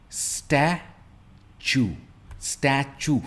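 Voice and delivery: स्टैच्यू slow, stress on the first part; word stress demo. Shown as a demonstration. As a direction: say स्टैच्यू slowly, first syllable strong. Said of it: "इस पे हम stress देते हैं". (स्टैच्यू में पहले हिस्से पर ज़ोर)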